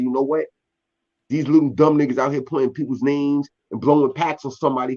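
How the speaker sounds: usual speaking voice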